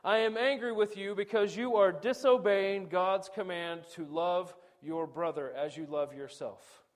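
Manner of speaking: a stern father's measured rebuke, barked name first; firm calm rebuke. Retold or imitated. Father to quarreling sons, firm but controlled rebuke. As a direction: call out Boys, then rebuke steadily. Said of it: "to practice the ideal".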